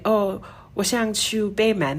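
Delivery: textbook Mandarin. Retold or imitated. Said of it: "They're not gonna be like".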